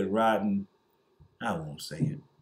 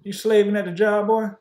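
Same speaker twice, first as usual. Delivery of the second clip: mock white boss; 9 semitones higher, 5 dB louder than usual. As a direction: sneer down at the worker, higher and louder. Mocking white bosses voice.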